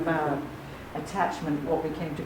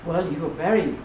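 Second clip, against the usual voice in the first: a light hint of an Indian accent; slight Indian accent. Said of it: "using a slightly Indian voice".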